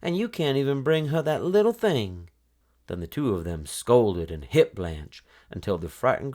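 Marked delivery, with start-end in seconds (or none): 0.0-2.3 higher, shrill-pitched scolding cry; mock scream. Mother berating Blanche for failing her sister, mock scream. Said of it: "her mother screamed".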